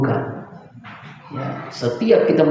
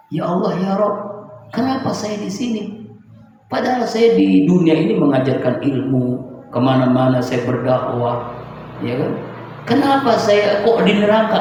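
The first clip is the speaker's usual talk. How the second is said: pleading protest; 5 semitones higher than usual. Acted. Scholar protesting to God in hell.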